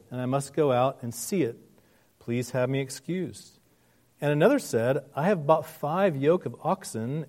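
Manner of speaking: measured, solemn reading of a parable; scripture reading. Acted. Pastor reading scripture aloud, measured and solemn. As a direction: read the passage steadily to the congregation.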